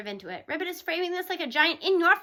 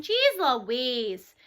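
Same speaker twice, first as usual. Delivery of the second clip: Dad's line; 5 semitones lower than usual. Acted. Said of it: "borrowing Dad's line".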